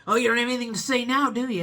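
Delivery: retold taunt from the furious customer; mocking taunt. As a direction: jeer at her like the angry customer. Angry customer taunting her.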